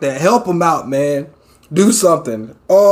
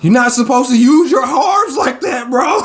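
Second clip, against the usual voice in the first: exasperated shout; 6 semitones higher than usual. Real, not acted. Scolding Deku at screen.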